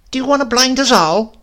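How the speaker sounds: put-on high, loud indignant old woman; indignant grandmother. A narrator's reading. Grandmother rebukes Silas's outfit, high and loud. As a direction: scold him for the dazzling yellow.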